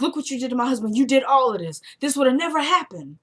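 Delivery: lightly high accusing witch; a hint of the witch voice. Witch voice again, softer.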